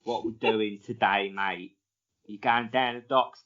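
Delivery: playful put-on Cockney accent; a cheeky Cockney geezer greeting his mate. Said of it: "He's a bit like".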